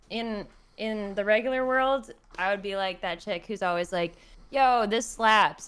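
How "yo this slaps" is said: put-on slow Valley Girl drawl on yo; lazy Valley Girl accent, dragged out. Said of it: "Valley Girl, uh, accent".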